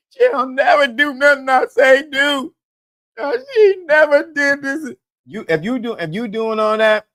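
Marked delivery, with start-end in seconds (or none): 0.1-4.9 crying and whining. Acted. Man complaining about his girl, mock crying. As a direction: whine it out like a hammed-up crybaby. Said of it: "You crying and whining".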